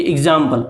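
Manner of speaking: "एग्जाम्पल" with "ig" at the start; correct short-i pronunciation. Shown as a demonstration. Teacher confirming the right form for learners, "एग्जाम्पल" as "ig-zampal". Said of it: "एग्जाम्पल नहीं".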